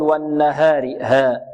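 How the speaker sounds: والنهار with the a after h tilted toward e; wrong taqlil. Shown as a demonstration. Teacher showing what not to say, reduced vowel. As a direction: say ها in والنهار almost as hey. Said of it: "لا، لا، لا نقول".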